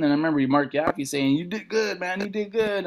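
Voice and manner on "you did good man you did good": soft, slightly high retold voice; hushed praise. Fellow comedian after the set, softly praising. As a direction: imitate a friend quietly impressed.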